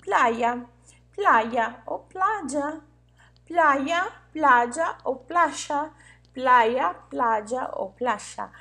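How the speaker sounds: "playa" said with y, then j, then sh, slowly; playa variants. Shown as a demonstration. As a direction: spell out each way to say "playa", slowly. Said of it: "Como a gente escreve praia".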